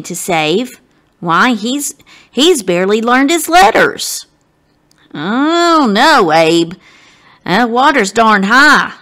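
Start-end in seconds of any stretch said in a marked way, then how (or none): 5.1-8.9 worried frown. Acted. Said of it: "Alston frowns".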